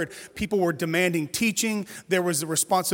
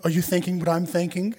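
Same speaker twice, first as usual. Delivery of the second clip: put-on playful little girl voice. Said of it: "She says it like that".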